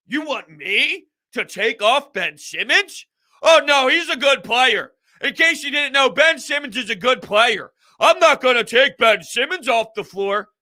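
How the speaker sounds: high, loud sarcastic coach voice; mock the coach's dismissive answer, hammed up; mocking Doc Rivers. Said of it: "You know what else Doc said?".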